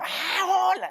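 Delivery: high, loud surprised hello on recognizing someone; light up as you recognize a friend. Acted. You suddenly recognize the person calling, surprised happy greeting. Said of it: "Pero si te acuerdas".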